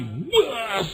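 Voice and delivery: long high whoosh; drawn-out swooping noise; imitated swoop. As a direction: mimic the plane lurching up. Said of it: "tapi naik lagi".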